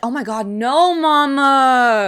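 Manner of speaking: high, loud whining plea; hammed-up childish wail; whiny protest. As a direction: beg mama not to make him go. Son protesting mom, acted.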